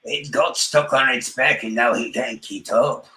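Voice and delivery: lightly put-on Australian mate voice; a hint of Australian accent mocking a stuck tortoise. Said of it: "bust out with an Australian accent".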